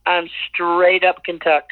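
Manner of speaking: slow, drawled-out Eastern Kentucky twang; Kentucky accent. Shown as a demonstration. Singer shows how she talks to Kentucky folks, slow Kentucky twang. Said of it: "I'm talking like this".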